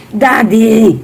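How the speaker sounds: calling out to Daddy through a laugh; giggling shout of Daddy. Real, not acted. Calls to husband while laughing.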